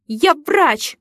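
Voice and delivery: a firm, snappish retort; brief fierce growl. A narrator's reading. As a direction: cut him off with it. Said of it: "рыкнула я".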